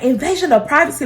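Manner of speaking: mock mom's indignant repeat; going off. Mom throwing the privacy complaint back, going off. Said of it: "she was going off on me".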